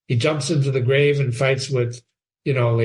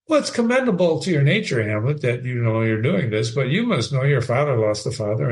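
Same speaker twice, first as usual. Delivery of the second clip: belittling Claudius; 2 semitones lower than usual. Acted. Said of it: "belittles Hamlet".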